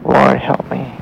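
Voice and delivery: crying out. A narrator's reading. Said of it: "he kinda crying for".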